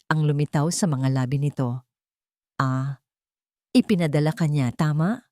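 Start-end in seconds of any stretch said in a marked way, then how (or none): 2.6-5.2 cold question. Acted. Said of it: "Malamig na tanong nito".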